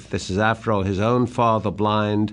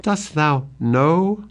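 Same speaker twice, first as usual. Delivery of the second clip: desperate plea; 3 semitones higher, slower than usual. Acted. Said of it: "desperately and pathetically".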